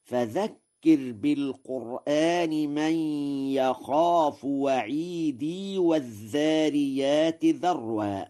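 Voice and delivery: وعيدي ending in a long i, linked to والذاريات; Warsh connected reading. Shown as a demonstration. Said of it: "فيقرأ هكذا". (وصل وعيدي بإثبات الياء)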